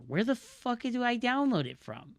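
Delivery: high, loud exasperated yell climbing to a shouted hello; furious shout. Real, not acted. Streamer shouting at a page that hides the download. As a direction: lose it at the website.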